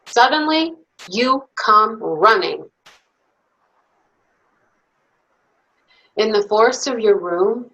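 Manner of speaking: put-on lively, expressive bedtime story read to little kids; reading to children. Reads picture book to children.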